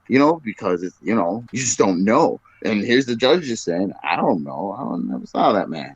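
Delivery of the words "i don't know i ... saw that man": cold denial. Retold or imitated. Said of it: "Just cold".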